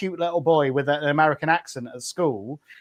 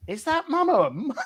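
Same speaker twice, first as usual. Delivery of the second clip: slow, high, amused double take; half-laughing, can't believe it's her; laughing disbelief; 7 semitones higher, slower than usual. Retold or imitated. To a co-host, laughing in disbelief at mum's accent.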